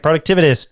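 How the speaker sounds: productivitist with a syllable dropped from productivityist; mispronounced name. Retold or imitated. Host imitating people who trip on the show's name, mispronounced. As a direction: stumble productivityist into a shortened "productivitist". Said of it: "people have a problem saying productivityist".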